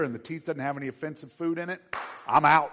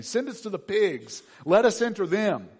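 demons begging; 8 semitones higher, 9 dB louder than usual. Acted. Demons beg Jesus.

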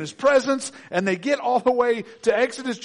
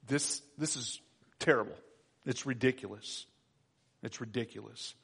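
griping; 9 semitones lower, 13 dB quieter than usual. Retold or imitated. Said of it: "they're griping and they're complaining".

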